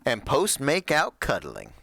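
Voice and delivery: rambling doomed guy on tape; pained goofball leaving a last message; dead vault hunter's recording. Acted. GM voices echologue recording.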